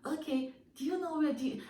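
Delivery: a high, mocking impression of a naive stranger; mock eager stranger. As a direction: imitate an overeager stranger. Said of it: "and you're like".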